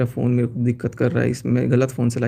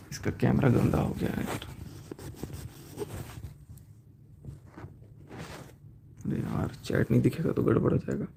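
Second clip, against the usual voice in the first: whispered grumble under his breath, much softer; muttering aside; 3 semitones lower, 11 dB quieter than usual. Real, not acted. Vlogger grumbling to himself about the camera, whispered. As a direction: mutter it to yourself, almost voiceless.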